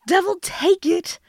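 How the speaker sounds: troll cursing in a changed voice; gruff troll voice. Acted. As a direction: growl it like a frustrated troll.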